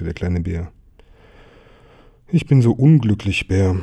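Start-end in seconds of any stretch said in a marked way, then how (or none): 2.3-3.8 louder, mildly plaintive lament; miserable. Acted. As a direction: complain woefully to a friend. Tiger complains of his misery.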